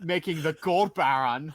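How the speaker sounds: put-on laughing through a German accent. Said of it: "We're going to do the rest of this podcast in German accents".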